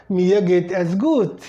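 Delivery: Mir geht es gut said slowly, word by word; slow demo answer. Shown as a demonstration. Teacher modeling the student's reply, slow and clear. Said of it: "E você responde".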